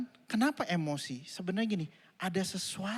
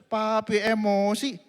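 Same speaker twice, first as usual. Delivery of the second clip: put-on child teasing; 4 semitones higher, 6 dB louder, slower than usual. Child teasing angry father.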